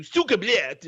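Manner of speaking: mock gamer's attempt at Russian; lightly hammed-up, terrible Russian accent; bad Russian accent. Podcaster mocking someone trying Russian in Counter-Strike, bad Russian accent. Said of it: "when someone tries to do".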